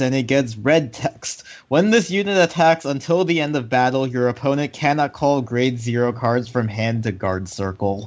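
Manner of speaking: words forced through clenched teeth. Acted. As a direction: read it with teeth clenched tight. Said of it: "I liked how you said that through clenched teeth".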